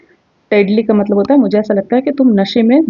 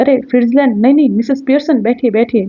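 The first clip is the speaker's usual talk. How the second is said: flustered; 4 semitones higher than usual. Acted. Flustered correction of name.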